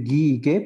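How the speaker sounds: "gui y gue" con g de gato; G dura, U muda. Shown as a demonstration. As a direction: pronunciar "gui y gue" sin sonar la u. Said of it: "usamos las formas de arriba". ("gui y gue" sin diéresis)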